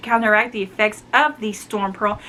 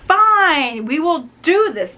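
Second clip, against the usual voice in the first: higher, louder fed-up agreement; resigned Obsidian; 6 semitones higher, 4 dB louder, slower than usual. Retold or imitated. Obsidian giving in to the duel, mock resigned. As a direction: give in grudgingly. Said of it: "Obsidian's like".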